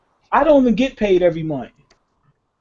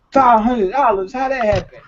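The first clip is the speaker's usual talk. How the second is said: retold shock; 4 semitones higher than usual. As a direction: stretch it out in shock.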